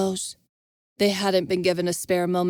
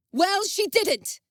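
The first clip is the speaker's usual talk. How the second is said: higher, slow, bitter outcry; shouting; 12 semitones higher, slower than usual. Acted. Envis answering Devon, shouting. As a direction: fling the words back in anger. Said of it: "Envis shouted".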